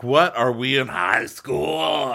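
loud, drawn-out scoffing; mock incredulity. Friend scoffing at a passed note, mock incredulity. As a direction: call it out in hammed-up disbelief.

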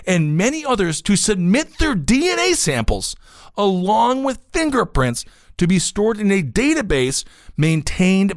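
emphatic article read. Real, not acted. Host reading a DNA bill to listeners, emphatic read. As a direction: read the report out, stressing key words.

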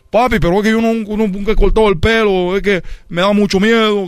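mild mock fear; scared son. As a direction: beg off nervously. Son voicing fear to father.

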